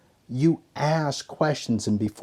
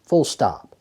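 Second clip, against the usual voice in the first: whoa, higher and louder, putting on the brakes; alarmed stop; 6 semitones higher, 5 dB louder than usual. Acted. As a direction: rear back and halt the attack. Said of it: "Ryan's like".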